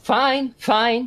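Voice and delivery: high, exasperated protest; exasperated giving in. Acted. Prisoner grudgingly gives in.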